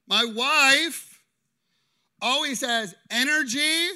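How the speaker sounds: acting out the husband in the skit; husband quote. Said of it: "Husband says what?".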